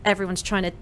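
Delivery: normal talking voice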